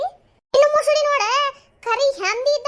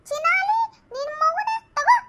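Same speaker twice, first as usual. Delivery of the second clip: shrill rival woman; 7 semitones higher than usual. Acted. Acted quarrel, new voice.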